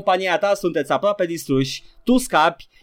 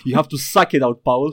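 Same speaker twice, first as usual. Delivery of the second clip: laughing. Real, not acted. Joking crude line through laughter.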